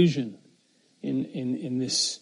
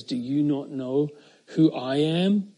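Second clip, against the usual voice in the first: Jesus' quiet answer. Acted. Jesus answers Pilate calmly and quietly. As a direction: turn the question back gently. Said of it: "Jesus responds and says".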